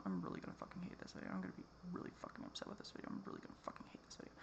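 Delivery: fast, hushed, grumbling under the breath; frustrated whisper. Real, not acted. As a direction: mutter it fast to yourself, almost unvoiced. Muttering frustration to herself.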